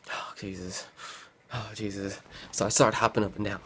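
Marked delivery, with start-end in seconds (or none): 0.1-2.2 weary moan. Retold or imitated. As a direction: sigh the words out, fighting sleep. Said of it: "I'm already just like".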